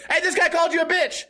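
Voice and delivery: high-pitched mock call-out; hammed-up tattling holler; pretend yell. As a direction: call out to stir up a fight. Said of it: "pull out my cell phone and yell".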